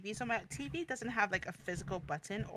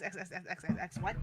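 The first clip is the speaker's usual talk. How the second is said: laughing; 3 semitones lower, 4 dB quieter than usual. Real, not acted. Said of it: "I was just X".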